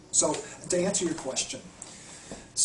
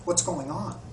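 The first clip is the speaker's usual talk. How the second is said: gentle mirroring; 4 semitones higher, 3 dB louder than usual. Shown as a demonstration. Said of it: "if you're dialoguing with them".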